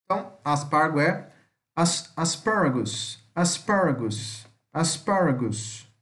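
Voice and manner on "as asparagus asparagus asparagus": slow asparagus with a closed A. Shown as a demonstration. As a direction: model asparagus slowly, stress on the second syllable. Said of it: "Como se fosse um A mais fechado".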